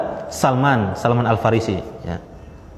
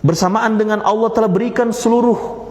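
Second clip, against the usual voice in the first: higher, earnest reproach; reproachful son; 6 semitones higher than usual. Retold or imitated. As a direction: gently scold the caliph father. Son's reproach retold in Indonesian.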